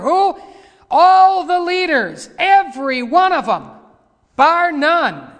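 high, very loud denunciation; full-force preaching. Real, not acted. Preacher accusing all the leaders from scripture, in thundering preaching. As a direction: thunder the verse and accusation at the congregation.

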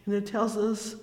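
ordinary delivery

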